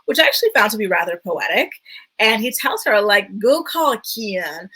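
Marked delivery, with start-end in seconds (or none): 3.4-4.7 put-on slow, stretched Louisiana accent; Southern accent. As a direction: imitate his Louisiana drawl lightly. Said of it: "when I imitate the accent".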